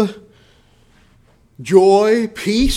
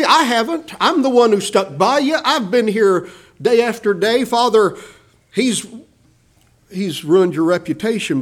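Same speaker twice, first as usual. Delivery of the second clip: slightly raised, aggrieved complaint to his father; upset older brother; 2 semitones higher than usual. Retold or imitated. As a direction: plead your own loyalty with hurt indignation. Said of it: "the boy is upset".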